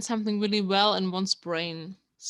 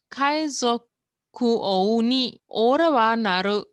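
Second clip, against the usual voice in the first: louder, proclaiming each word; pirate's proud vow; 6 dB louder than usual. Acted. Teacher reading the hero's famous line, loud and proud. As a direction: shout it out like a boast to the sea.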